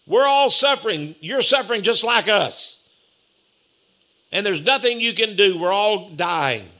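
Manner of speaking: retold jeering complaint; taunting. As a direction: needle him as the suffering thief. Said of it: "he began to taunt Jesus".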